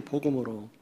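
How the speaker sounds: soft muttered repeat of 복음으로; quiet echo. Real, not acted. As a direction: drop the voice and echo 복음으로 to yourself. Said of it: "복음으로 판단해야 돼요".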